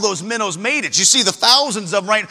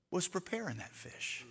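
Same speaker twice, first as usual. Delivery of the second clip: hushed sermon aside; 5 semitones lower, 24 dB quieter than usual. Acted. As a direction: lean in and hush the congregation. Hushed preaching drop.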